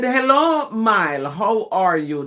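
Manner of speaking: Jamaican speaker demonstrating English; demonstrated English. Shown as a demonstration. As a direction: say the greeting in standard English. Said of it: "That's English".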